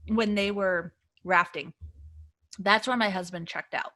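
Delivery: talking around a piece of ice; mouth full. Real, not acted. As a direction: speak with ice in your mouth. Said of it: "I put a piece of ice in my mouth".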